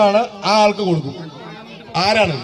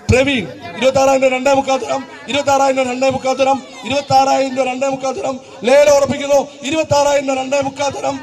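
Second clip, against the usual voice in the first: auctioneer. Acted. Live auction calling bids.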